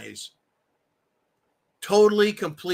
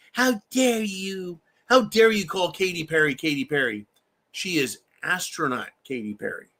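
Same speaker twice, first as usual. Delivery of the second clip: Greta impression. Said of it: "my little Gretchen, the climate Grinch".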